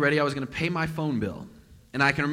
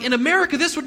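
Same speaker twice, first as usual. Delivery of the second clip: louder, higher indignant rant; exasperated outburst; 10 semitones higher, 6 dB louder, faster than usual. Retold or imitated. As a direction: blurt out a frustrated complaint. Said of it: "I was like".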